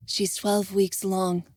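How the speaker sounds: slow, even, composed; calm. Acted. Savannah informing Envis, calm. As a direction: state it calmly to soothe. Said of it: "Savannah replied calmly".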